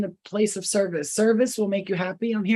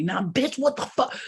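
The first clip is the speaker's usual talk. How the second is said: rude confrontation; 5 semitones higher than usual. Retold or imitated. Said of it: "come in my face talking about".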